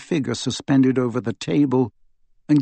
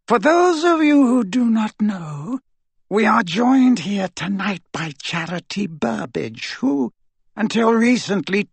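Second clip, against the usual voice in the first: cold dark lord; 7 semitones higher than usual. Acted. Voldemort introduces the prisoner.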